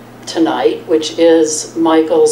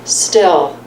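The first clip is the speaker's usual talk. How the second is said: measured reading with pauses between phrases; poem read aloud to an audience; poetry reading. Acted. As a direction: let each line land, then pause. Reads own poem to audience.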